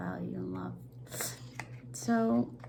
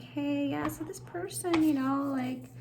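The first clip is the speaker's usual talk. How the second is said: calm phone call, a little higher; quiet, calm; 4 semitones higher than usual. Acted. Caller to police about an unwanted visitor, quiet and calm. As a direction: report it softly and evenly. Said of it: "quietly and calmly".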